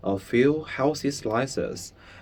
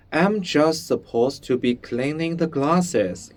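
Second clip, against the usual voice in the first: despairing; 4 semitones higher than usual. Acted. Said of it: "in despair".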